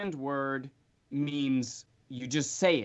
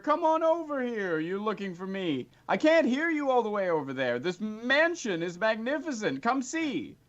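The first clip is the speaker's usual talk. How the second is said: very high, cheery beckoning voice; beckoning wizard; 7 semitones higher than usual. Acted. Matrius calling the visitor over, high and cheery. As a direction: wave him in gleefully. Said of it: "Matrius beckons".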